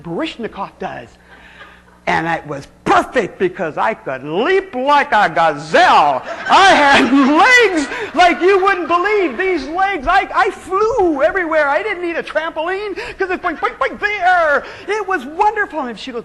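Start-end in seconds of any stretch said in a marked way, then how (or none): 2.8-6.2 leaping like a gazelle, laughing and a bit louder; proud, laughing brag; proud laughing boast. Real, not acted. Proud memory of her leaping. 6.2-15.8 much higher and louder, slowed and laughing; high, laughing giddy rapture; giddy excitement. Real, not acted. Gushing over her own leaps.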